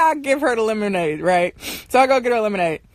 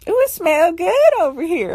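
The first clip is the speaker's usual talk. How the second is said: imitating sister; 5 semitones higher than usual. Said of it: "she's like".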